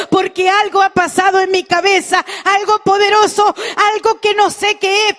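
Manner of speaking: voz alzada, clamor insistente de testimonio; clamor imitado. Retold or imitated. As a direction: imita a una mujer que grita su testimonio. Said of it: "a gritar y a decir". (clamor agudo y encendido, imitado)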